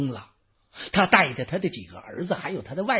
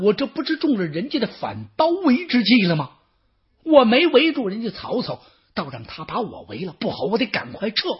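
panicked general; 5 semitones higher, 5 dB louder, faster than usual. Acted. Yuan Shao panics in the encirclement.

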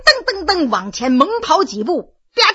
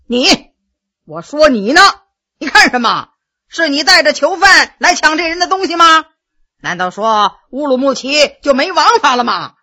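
angry; 3 dB louder than usual. Acted. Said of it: "有点发怒了".

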